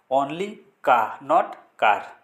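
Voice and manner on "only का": का for car, no r, drawn out; silent r. Shown as a demonstration. Teacher modelling car without r. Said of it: "इसका pronunciation होगा का".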